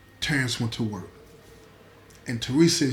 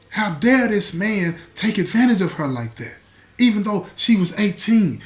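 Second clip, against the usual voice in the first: indignant father; 5 semitones higher than usual. Acted. Angry stepfather's outrage voiced.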